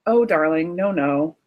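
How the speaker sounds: patronizing parent. Acted. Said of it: "what is that conservative voice saying".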